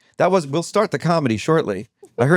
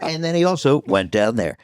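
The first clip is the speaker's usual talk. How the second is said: dropping into a low register. Shown as a demonstration. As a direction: sink down to show the low voice. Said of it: "had a high voice and a low one".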